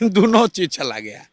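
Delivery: chuckling through the words; amused, laughing delivery; amused chuckle. Real, not acted. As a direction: let a real laugh lead into the line. Chuckles over rival's losses.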